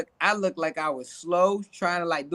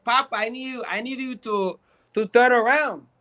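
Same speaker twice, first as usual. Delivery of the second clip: higher-pitched Spanish-accented English; put-on Spanish accent; 4 semitones higher than usual. Shown as a demonstration. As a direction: give orders in a mock Spanish accent. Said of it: "I just use the accent".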